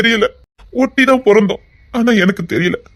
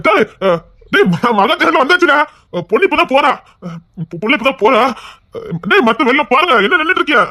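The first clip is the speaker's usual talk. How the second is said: raised, higher voice calling across the crowd; 5 semitones higher than usual. Acted. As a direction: shout the news across the crowd. Calling out at the temple car.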